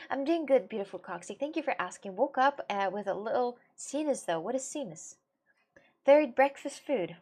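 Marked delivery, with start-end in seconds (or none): 6.0-7.2 slow breathy whisper; slow hushed joke. Real, not acted. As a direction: whisper it like a secret.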